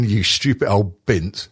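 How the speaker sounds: slow, mock-scornful insult; spat-out insult. Demonstrating the swear word as an insult, spat out slowly. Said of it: "why did you spit it out".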